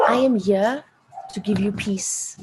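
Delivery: whispered. Retold or imitated. To her dying stepdad, forgiving him, in a whisper. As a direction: breathe the words out gently.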